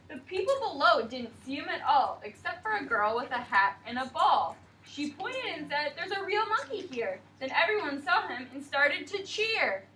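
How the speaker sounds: put-on sing-song picture book narration for little kids; storybook reading. A narrator's reading. Teacher reading rhyming story to class, bright storybook voice.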